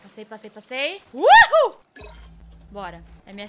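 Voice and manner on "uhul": high, loud whoop; triumphant whoop. Real, not acted. Gamer gets past the danger, triumphant whoop. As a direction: let out a victory "woo-hoo".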